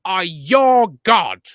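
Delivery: booming self-declared deity; grandiose proclamation. Acted. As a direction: proclaim it like a god. Proclaims himself a god.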